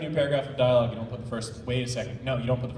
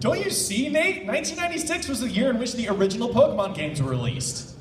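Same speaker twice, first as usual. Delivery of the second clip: excited realization; 4 semitones higher than usual. Acted. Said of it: "Dookie's eyes were shining".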